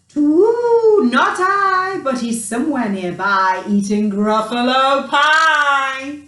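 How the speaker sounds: owl hooting. A narrator's reading. Owl answering the Gruffalo's child, hooting. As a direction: hoot it out like an owl. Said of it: "Down flew the creature".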